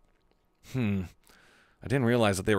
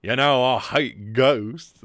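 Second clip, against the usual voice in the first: attempted Asuka voice; 4 dB louder, much slower than usual. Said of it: "It's not Asuka's voice".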